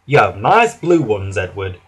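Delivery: gentle, reassuring, softening; kindly. Acted. Fat Controller kindly reassuring sad Edward about his wheels. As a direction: comfort him kindly. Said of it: "said the Fat Controller kindly".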